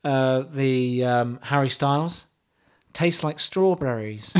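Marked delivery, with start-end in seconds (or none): 2.9-4.3 mock poetry recital. Host reciting pop lyrics to co-host, mock solemn.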